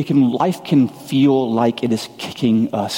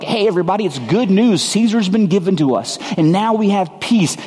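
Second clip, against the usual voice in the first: higher, bright herald announcing good news; mock propaganda cry; 6 semitones higher than usual. Preacher mimicking Caesar's propaganda, higher mock herald. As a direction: sell the empire's news like a town crier. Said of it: "who spreads propaganda like".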